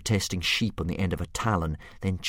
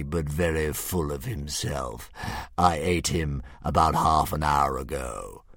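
slow, a hint of a grand beast; drawn out like a pleased old dragon; lightly voiced dragon; 3 semitones lower, 5 dB louder, slower than usual. Dragon musing over Hiccup's riddle, slow and lightly grand.

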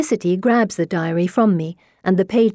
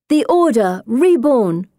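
solemn echo; 5 semitones higher, 4 dB louder, slower than usual. A narrator's reading. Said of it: "we all echo".

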